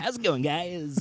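high, slow, over-sweet caller greeting; smarmy cold-call greeting; creepy telemarketer voice. Retold or imitated. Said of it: "the creepiest, like, telemarketer voice".

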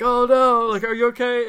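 high, loud mock alarm; hammed-up "oh no" panic; alarmed parent. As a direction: retell a parent's worried outburst. Alarmed parent retold to sick child.

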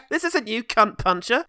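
high, mock-dramatic plea; mock Ian Lovejoy. Host parodying a film character's plea to Hellboy, mock-earnest cry. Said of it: "Ian Lovejoy shows up and says".

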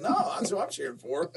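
high, laughing fan boast; proud fan claim. Retold or imitated. Derek telling the Aussie his team: high proud boast. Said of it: "I said".

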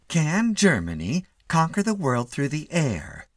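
high, slow headline voice; headline reading. A narrator's reading. Mitty reading the magazine, headline voice. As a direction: read it out as a portentous headline.

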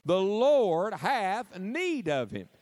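very slow, emphatic, with force on Lord; say it like you mean it. Shown as a demonstration. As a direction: drive it home with conviction. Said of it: "Let's try it one more time".

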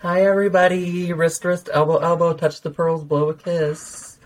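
high, put-on pageant wave voice; mock-gracious queen, drawing out the last words; pageant greeting. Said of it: "would have been nice to be like".

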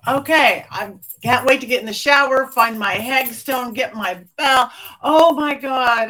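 loud burst of real excitement; excited. Real, not acted. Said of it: "I'm so excited".

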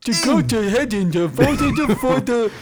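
mock Southern preacher urging votes; Southern accent. Comic urging listeners to vote Trump, hammed-up Southern accent. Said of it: "We actually do Southern accents".

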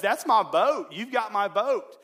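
put-on high, loud boy's outburst; absolutely excited. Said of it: "he's absolutely excited".

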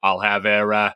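put-on laughing, light Boston accent; a giggly Kennedy Boston voice. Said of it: "I know it's come".

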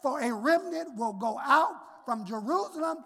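pulpit scripture reading; preacher reading; sermon reading. Acted. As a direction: read it to the congregation.

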